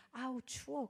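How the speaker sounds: a hint of a cold, shivering woman; lightly voiced "아우, 추워." as if suddenly freezing. Possessed woman's first words.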